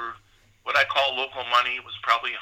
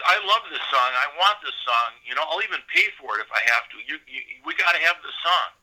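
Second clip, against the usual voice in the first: eager, raised voice wanting the song badly; excited record man; 3 semitones higher than usual. Record man pleading to buy the song, excited. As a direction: gush over the song like you must own it. Ira raves about the song.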